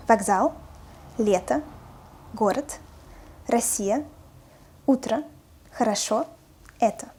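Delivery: listed words with unstressed O said as A: "Вокзал, лето, город"; rising list, "хорошо" as "kharasho", "это" as "eta". Shown as a demonstration. Teacher lists the found words, unstressed O pronounced as A. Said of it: "where O is pronounced as A".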